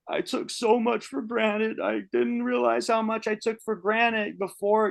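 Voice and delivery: re-enacted tearful admission. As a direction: act lightly choked up while confessing. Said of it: "I was, I was crying".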